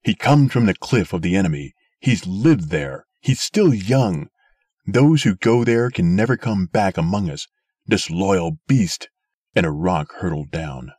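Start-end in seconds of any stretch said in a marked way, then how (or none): 0.0-9.1 put-on angry old man. A narrator's reading. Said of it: "cried the old man".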